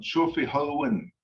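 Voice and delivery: "Chofi hoen" slow, short E in "hoen". Shown as a demonstration. Teacher shows how it becomes an adjective, short E. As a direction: say "Chofi hoen" slowly, short vowel before the N. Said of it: "pronounce it with the shorty sound".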